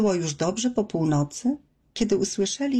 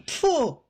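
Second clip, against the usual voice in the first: angry spit; 8 semitones higher than usual. A narrator's reading. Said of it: "splunął ze złością".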